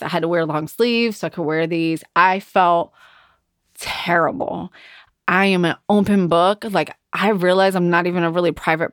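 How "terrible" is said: whispered. Real, not acted. Confessing how she felt.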